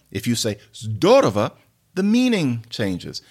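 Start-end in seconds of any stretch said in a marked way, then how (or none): 0.7-1.5 zdorowa with weight on the opening syllable; stress on first syllable. Shown as a demonstration. Teacher explaining changed meaning, first-syllable stress. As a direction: lean into "zdo" in zdorowa. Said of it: "put it on the first syllable".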